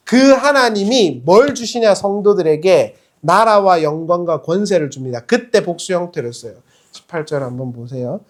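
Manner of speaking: usual speaking voice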